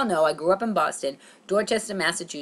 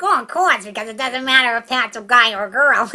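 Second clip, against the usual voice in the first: knowing realization; 4 semitones higher, 6 dB louder than usual. Retold or imitated. Reasoning aloud at audition waiting room.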